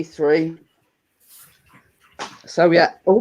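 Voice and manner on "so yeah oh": burp slipping out mid-word. Real, not acted. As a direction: let a burp interrupt you. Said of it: "I'm burping again".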